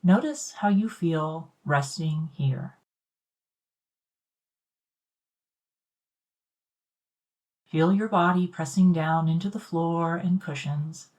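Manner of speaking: unhurried meditation guide, long pauses between phrases; guided meditation. Acted. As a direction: gently ease listeners into rest, leaving space after each thought.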